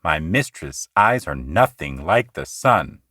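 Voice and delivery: "My mistress' eyes are nothing like the sun" read low with iambic beat. Shown as a demonstration. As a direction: scan it out in iambs. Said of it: "in iambic pentameter".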